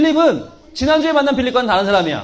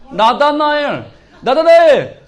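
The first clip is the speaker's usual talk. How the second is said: calling out; 3 semitones higher, 4 dB louder, slower than usual. Acted. Philip calling his friend.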